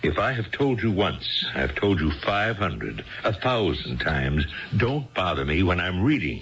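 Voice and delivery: stern scolding. Acted. Husband scolds wife for interrupting.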